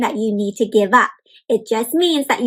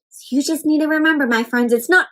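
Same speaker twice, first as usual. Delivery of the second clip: gentle, sing-song storybook reading; reading to children. Acted. Teacher reads the book aloud to the class, sing-song. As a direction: read it like a picture book for little ones.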